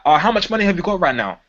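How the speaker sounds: invasive. Shown as a demonstration. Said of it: "That sounds invasive".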